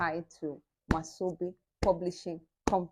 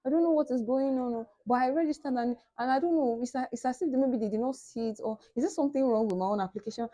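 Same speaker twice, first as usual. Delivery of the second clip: retold complaining; 6 semitones higher, faster than usual. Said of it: "I was complaining".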